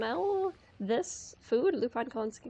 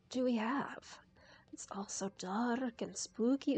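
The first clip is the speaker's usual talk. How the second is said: whispering; 4 dB quieter than usual. Real, not acted. Exploring a dark spooky room.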